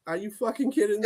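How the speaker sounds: mock disbelieving quarterback, laughing shout; imitating the quarterback. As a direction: play the fed-up quarterback, half laughing. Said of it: "The quarterback's like".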